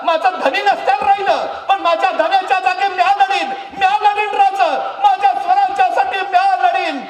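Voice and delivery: high, loud defiant shout; a widow's high, loud fierce vow. Acted. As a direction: swear loudly to fight. Widow vows to fight.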